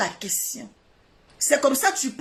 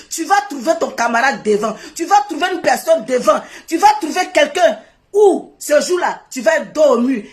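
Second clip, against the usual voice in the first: louder and louder warning; rising warning; 3 semitones higher, 4 dB louder than usual. Real, not acted. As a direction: build a threatening warning to a rival. Menace montante au rival. (avertissement de plus en plus fort)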